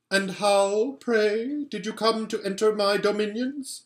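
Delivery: put-on cold queen insulting the boy; contemptuous Queen. A narrator's reading. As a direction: dismiss him as a fool. Queen voice held.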